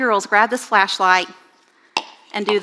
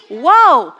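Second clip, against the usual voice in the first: shocked whoa; 3 semitones higher, 7 dB louder than usual. Real, not acted. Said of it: "I was a little bit shocked".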